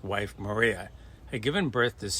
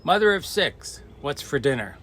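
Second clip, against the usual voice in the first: high, louder taunting call; mock husband; 5 semitones higher, 4 dB louder than usual. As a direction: lord it over her with the nickname. Husband mocking wife with nickname.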